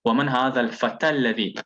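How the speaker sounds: fast, "الفتى" run straight into "الذي" with its final ah dropped; "الفتى الذي" joined, no vowel at the end of "الفتى"; joined reading. Shown as a demonstration. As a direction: read "ومن هذا الفتى الذي" briskly, the ya of "الفتى" silent. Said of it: "as if this ya here don't exist".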